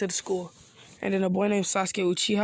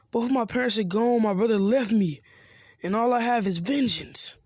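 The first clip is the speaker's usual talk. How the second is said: rising, louder hurt outburst; upset outburst; 4 semitones higher, 3 dB louder than usual. Acted. Sasuke snaps back at Naruto about his lost clan, upset and raised. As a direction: let the grief boil over into anger.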